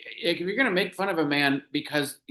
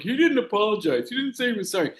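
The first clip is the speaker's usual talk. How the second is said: lightly mimicked critics' whining protest, pitched up; a hint of mocking higher-pitched imitation; mock right-wing complaint; 5 semitones higher, faster than usual. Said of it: "the right wing is still like".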